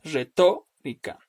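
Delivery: "retórica" slowly, leaning on TÓ; slow teacher's split of "retórica" after the stressed TÓ; stress on antepenult. Shown as a demonstration. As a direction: stretch re-TÓ, then let -rica drop. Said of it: "la sílaba tónica se va a ubicar".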